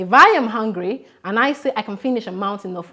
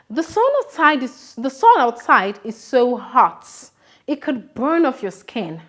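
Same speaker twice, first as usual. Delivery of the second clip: exaggerated moan about the heat; acted complaint; 3 semitones higher than usual. Shown as a demonstration. Teacher acting out a hyperbole, exaggerated heat complaint. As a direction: overplay how hot it is. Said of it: "I had also mentioned that outside the sun is so hot".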